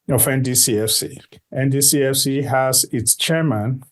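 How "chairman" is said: chairman set out with deliberate emphasis; stress on chairman. Real, not acted. Guest introducing the coalition's head, stress on chairman. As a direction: lean on the word chairman. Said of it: "I said chairman with emphasis".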